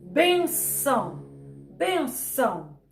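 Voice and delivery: benção slowly, ben given the weight; benção, ben clear and ão let fall; stress on BEN. Shown as a demonstration. Teacher repeating benção slowly, stressing ben. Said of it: "o ben sai com mais intensidade".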